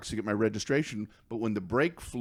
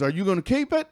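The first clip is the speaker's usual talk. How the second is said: eager hunter; 8 semitones higher, 3 dB louder, faster than usual. Retold or imitated. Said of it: "one of 'em goes".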